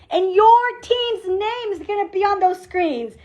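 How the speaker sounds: ordinary delivery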